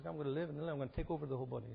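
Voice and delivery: cancer cell gloating. Retold or imitated.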